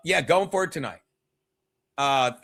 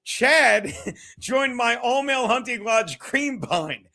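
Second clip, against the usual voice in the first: reading through laughter. Real, not acted. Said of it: "okay, ready?".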